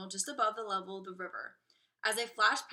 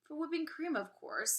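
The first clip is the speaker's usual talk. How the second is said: matter-of-fact; 7 semitones higher than usual. Acted. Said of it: "said Mister Wonka".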